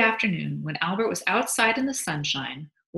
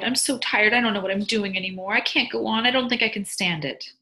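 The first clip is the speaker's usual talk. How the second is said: higher-pitched, worn-out complaint; weary sighing; 5 semitones higher than usual. A narrator's reading. Exhausted wife tells husband she can't go on, weary sighing. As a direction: plead exhaustion in a raised voice. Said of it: "she sighed".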